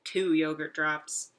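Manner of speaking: slow, savoured answer; smug slow answer; slow punchline. Acted. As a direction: land it slowly.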